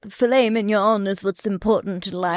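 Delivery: lightly put-on French accent. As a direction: say it with a hint of French. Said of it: "that was my French accent".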